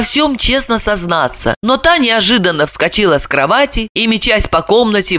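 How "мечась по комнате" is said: ordinary delivery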